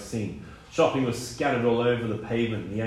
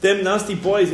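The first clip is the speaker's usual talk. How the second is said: put-on child interrupting; 8 semitones higher, 7 dB louder than usual. A narrator's reading. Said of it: "interrupted Miranda".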